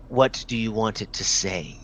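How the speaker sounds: low, softened near-whisper. Acted. Orc priestess to her client before tattooing, hushed. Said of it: "she whispers".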